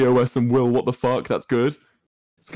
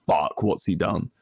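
quiet mock dread; 5 semitones lower than usual. Shown as a demonstration. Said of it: "like, be really".

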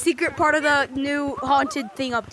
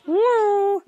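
roller coaster; 7 semitones higher than usual. Pretend. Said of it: "I'm literally on a roller coaster right now".

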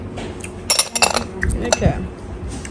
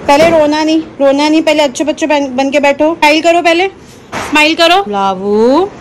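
higher-pitched aunty coaxing a crying nephew; 4 semitones higher than usual. Real, not acted.

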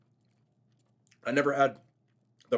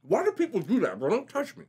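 exasperated; 9 semitones higher than usual. Real, not acted. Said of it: "I couldn't help it".

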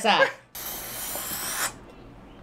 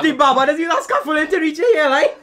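helium voice; 3 semitones higher than usual. Real, not acted. Helium roast retry.

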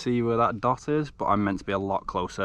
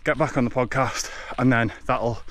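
while running. Real, not acted. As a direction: keep talking as you run. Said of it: "running at a five twenty pace".

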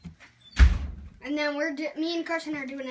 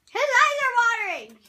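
excited; 6 semitones higher, 5 dB louder, much faster than usual. Real, not acted. Exclaiming at eyes watering.

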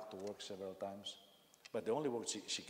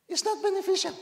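"not" hit hard, high and loud; loud emphatic repeat; 13 dB louder than usual. Shown as a demonstration. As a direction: hammer the point home the second time.

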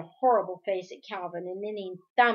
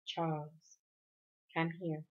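tender; 5 semitones lower, 10 dB quieter than usual. A narrator's reading. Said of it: "His voice was tender".

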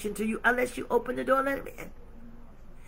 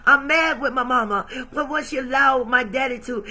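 loud, hammering each I'm mad; mildly heated list of complaints; angry venting; 4 dB louder than usual. Acted. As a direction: pour out the grievances one by one. Lois venting anger at God.

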